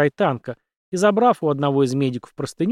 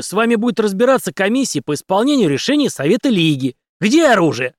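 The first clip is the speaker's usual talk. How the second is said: loud, higher commanding tirade; furious demand; 8 semitones higher, 6 dB louder than usual. A narrator's reading. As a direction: pin him with authority. Henry threatens doctor for gun. (Генри в ярости требует оружие, громко)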